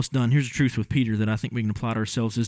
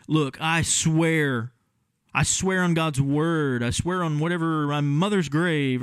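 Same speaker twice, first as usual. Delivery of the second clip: slow, insistent oath, a little higher; swearing denial; 4 semitones higher, slower than usual. Acted. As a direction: plead it slowly like a cornered kid. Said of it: "You can just hear him".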